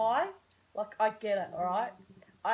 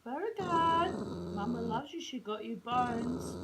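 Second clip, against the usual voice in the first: talking to the dog; 3 semitones higher than usual. Real, not acted.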